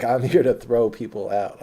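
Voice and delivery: loud, slow, emphatic declaration; imitated worked-up bouncer. Bouncer explaining his job after a fight, loud insistence. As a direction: hammer out each word, mimicking a heated bouncer. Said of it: "He was up".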